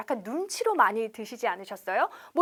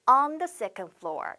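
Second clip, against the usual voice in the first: same slow model again; slow repeat for learners; much slower than usual. Shown as a demonstration. Teacher repeating the phrase for students, slowly. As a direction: repeat it slowly for them to echo. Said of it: "이렇게 on 쓴다는 거 꼭 기억하셔야 됩니다".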